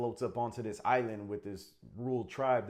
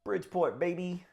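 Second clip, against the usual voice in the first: proud hometown shout; 9 semitones higher, 5 dB louder than usual. Real, not acted. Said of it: "hometown shout".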